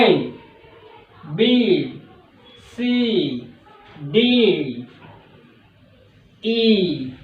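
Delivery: ए, बी, सी, डी said soft and low; soft letters. Shown as a demonstration. Teacher modelling soft alphabet for students to repeat. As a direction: breathe the letters out gently. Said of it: "थोड़ा साइन को soft बोलना है".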